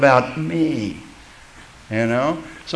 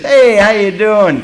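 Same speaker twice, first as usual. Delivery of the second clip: quick throwaway "Hey, how you doing?" with no real interest; casual greeting; 6 semitones higher, 9 dB louder than usual. Shown as a demonstration. To passing men, a careless hello. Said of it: "kind of grabbing stuff".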